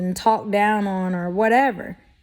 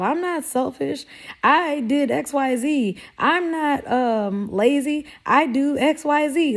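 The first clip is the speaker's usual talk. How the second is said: mock defensive whine; 5 semitones higher than usual. Mock defensive self-justification.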